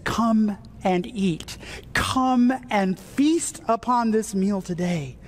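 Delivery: slow, stretched-out welcoming call; gracious invitation. Acted. Jesus invites the congregation to his table, gracious invitation. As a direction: invite them slowly and graciously. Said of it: "he so graciously says".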